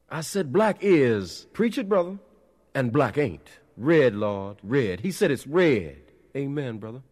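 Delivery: high, loud sermon call-and-response; fervent preacher shouting. A narrator's reading. Preacher and congregation trading cries of amen, shouted. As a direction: whip the congregation up with ringing cries. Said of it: "the preacher shouted".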